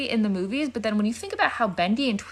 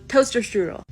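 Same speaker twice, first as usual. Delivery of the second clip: fake Dutch accent. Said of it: "I can't do a Dutch accent".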